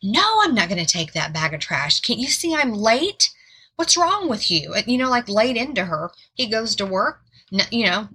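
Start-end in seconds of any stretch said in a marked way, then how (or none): 0.0-4.7 a husband snapping at his wife, lightly acted; mild imitation of an angry husband's yell; retold yelling. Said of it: "was yelling at her".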